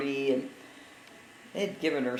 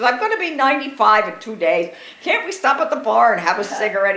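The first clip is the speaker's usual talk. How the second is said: laughing quote; 5 semitones higher, 10 dB louder than usual. Retold or imitated. Mother's plea repeated, laughing.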